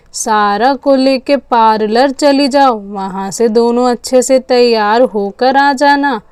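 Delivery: measured, lightly voiced matriarch laying down rules; a hint of a stern old mother-in-law; firm grandmother. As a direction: rule on it like the household elder.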